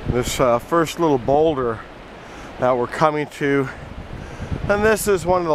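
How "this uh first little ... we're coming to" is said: gusty wind buffeting the mic. Real, not acted. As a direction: wind noise over the voice. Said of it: "please excuse the wind".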